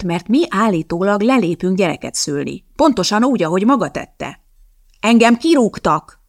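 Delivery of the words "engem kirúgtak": a slow, loud, angry snap, higher; angry retort. A narrator's reading. Elizabeth snaps back at Fresk, loud and angry. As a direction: fire it back in anger. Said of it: "vágta rá Elizabeth dühösen".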